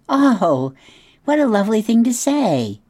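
high, delighted gush; a touch hammed-up, high and pleased; flattered opossum. A narrator's reading. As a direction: preen at the praise.

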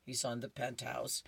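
a secret little whisper to listeners; whispered aside. Real, not acted. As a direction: whisper the punchline. Explaining the joke.

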